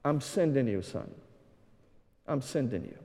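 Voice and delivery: soft, hushed and tender, as if God is speaking; God's voice. Acted. Preacher voicing God calling him, softly. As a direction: let it fall quiet, a gentle calling. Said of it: "And God said".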